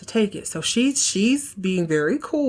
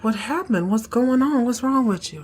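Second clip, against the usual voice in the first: worried Val; 6 semitones higher than usual. Retold or imitated. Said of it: "She's like".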